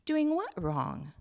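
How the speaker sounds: put-on a worried child asking gently; small child voice.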